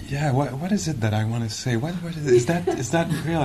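imitating a teacher checking each word, halting then rising; inquiring. Imitating a teacher who checks her words as she talks, inquiring. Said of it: "in an inquiry mode".

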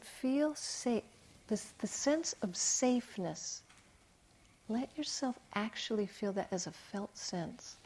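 hushed, unhurried guiding; softly retold invitation to rest in it; gentle reassurance. Therapist retells helping a client settle into safety, gentle reassurance.

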